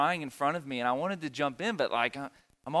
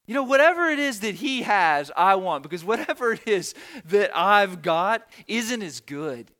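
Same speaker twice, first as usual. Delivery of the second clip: impassioned; 3 semitones higher, 7 dB louder than usual. Real, not acted. Preacher's passionate climax.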